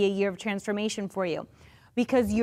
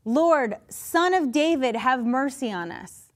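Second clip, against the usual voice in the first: mild mock shouting. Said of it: "they only shouted louder".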